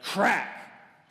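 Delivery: sudden punched crack; chair cracking. Acted. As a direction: burst out with a storyteller's crack. Sound of breaking chair in story.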